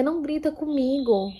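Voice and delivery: lightly voiced timid heroine; meek girl voice. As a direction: play the submissive girl begging him to stop shouting. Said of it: "ela dizia".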